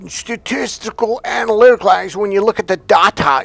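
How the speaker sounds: mock him like a droning robot; robotic mimic. Mocking the bitter man from the video, high robotic voice. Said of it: "like he's a freaking robot".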